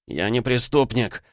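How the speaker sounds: slow, hoarse wheezing plea; hoarse wheeze. Acted. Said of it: "прохрипел он".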